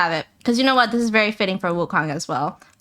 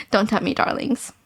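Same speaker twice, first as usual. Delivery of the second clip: sultry succubus tease. Acted. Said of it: "I go from that voice to this one".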